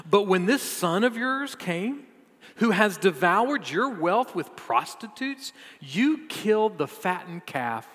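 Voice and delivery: slow, mounting indignation; resentful older son. Retold or imitated. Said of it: "this is how his older son responded".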